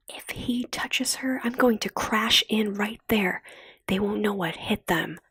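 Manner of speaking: a hint of a determined girl's oath; mild sworn threat. Kara vowing to protect Lena, mild determined threat. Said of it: "Kara swore".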